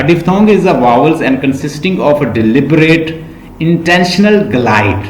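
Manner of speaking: slow, deliberate reading of a definition; textbook read-aloud. Real, not acted. Teacher reads definitions to the class, slow read-aloud. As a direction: read it out slowly, word by word.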